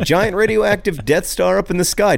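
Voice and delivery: laughing through the line; cracking up mid-sentence. Real, not acted. Repeating sponsor line, cracking up.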